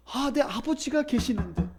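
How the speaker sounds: a wistful son's soft sigh of realization; acted lament. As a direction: begin the lament quietly, to yourself. Prodigal son's lament, first take. (혼잣말하듯 나직한 탄식)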